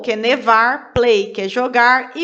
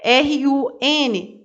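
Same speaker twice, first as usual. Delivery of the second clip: slow spelled letters; much slower than usual. Shown as a demonstration.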